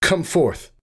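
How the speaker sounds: high, taut warrior mare's command; fierce challenge. A narrator's reading. Warrior mare in labour challenges the dark, fierce command.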